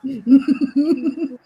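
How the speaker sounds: low, deep heroic voice; bold heroic voice. Pretend. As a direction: speak like a grand hero. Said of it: "talking like this".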